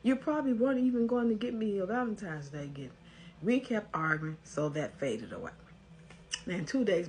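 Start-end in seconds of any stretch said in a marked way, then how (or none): 0.0-2.9 mild mock accusation, pitched higher; a touch of heated complaint; retold argument. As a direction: lightly act out the angry girlfriend. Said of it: "we had an argument in which I said".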